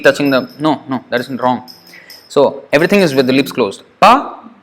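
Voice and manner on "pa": "Pa" with a strong puff of breath after the p; teacher models aspirated "Pa", pitched up; aspirated pha. Shown as a demonstration. Teacher demonstrating aspirated pa to students, breathy puff. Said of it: "same pa with force of breath".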